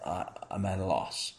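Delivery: a playful mock of a flustered God; freaked out. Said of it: "God is freaked out and says".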